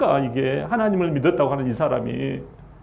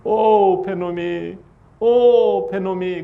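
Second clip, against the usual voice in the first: dying mother's call; much slower than usual. Retold or imitated. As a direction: call the baby's name as a faint, grieving lament. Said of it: "이름을 부릅니다". (죽어가는 아내의 가벼운 흉내 탄식)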